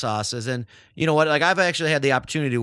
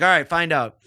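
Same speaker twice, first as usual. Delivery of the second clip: put-on Austrian accent; 4 semitones higher, 6 dB louder than usual. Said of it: "he said it in his, uh, Austrian accent".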